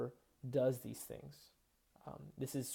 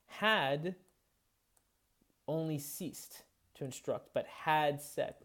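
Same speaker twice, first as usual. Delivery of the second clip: HAD and set stretched out slowly; drawn out "had set" with the had stressed; slower than usual. Shown as a demonstration. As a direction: lean on "had set", slow and weighted. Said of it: "Notice he, he has these "had set".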